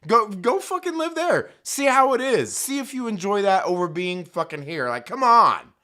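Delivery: venting real outrage at them; angry rant. Real, not acted.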